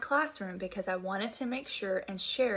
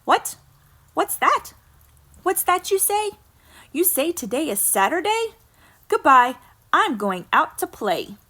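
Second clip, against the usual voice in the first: much higher, loud and bright, suddenly cured; sudden excitement; 7 semitones higher, 13 dB louder than usual. Acted. Peggy hearing it's Saturday, suddenly excited and loud. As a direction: snap out of the sickness, thrilled.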